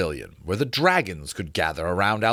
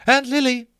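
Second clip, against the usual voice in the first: high, louder quick call; calling after; 5 dB louder than usual. A narrator's reading. Harcourt calls after him.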